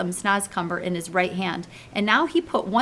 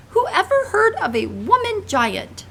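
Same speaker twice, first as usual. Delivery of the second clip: much higher, louder, slow giant shout; 13 semitones higher, 4 dB louder than usual. Acted. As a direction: bellow it out in outrage. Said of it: "shouted the B F G".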